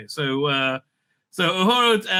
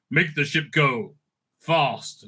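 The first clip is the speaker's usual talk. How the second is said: dumb mock voice; 3 semitones lower, slower than usual. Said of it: "It says".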